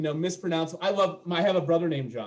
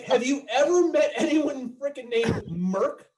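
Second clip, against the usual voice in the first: exasperated; 8 semitones higher than usual. Retold or imitated. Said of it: "And I'm like".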